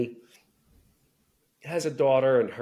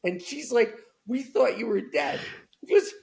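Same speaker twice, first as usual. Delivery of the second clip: much higher, shrieking mock rage of a brother jolted awake; imitating startled yell. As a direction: yell it high and cracking, as if woken in a panic. Brother wakes, yells at sister.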